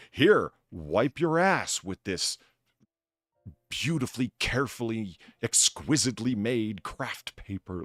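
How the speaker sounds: slow, drawn-out mock sales pitch; mock luxury pitch. Mocking pricey toilet paper to a friend, slow mock sales pitch. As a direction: savour each word like a snooty salesman.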